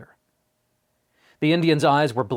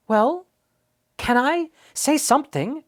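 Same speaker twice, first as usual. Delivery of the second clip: put-on high, louder, impatient boy's urging; impatiently; 13 semitones higher, 4 dB louder than usual. A narrator's reading. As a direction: push him, eager and impatient. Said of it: "urged Omri impatiently".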